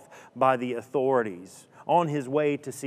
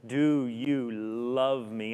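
slow gentle question; much slower than usual. Acted. Jesus repeating the question slowly.

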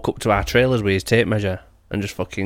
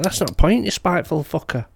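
retold retort; 7 semitones higher than usual. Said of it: "I'm like".

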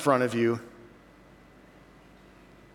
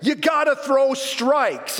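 yelled again; 9 semitones higher, much slower than usual. Retold or imitated. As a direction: really belt it out this time. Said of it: "that dad will yell again".

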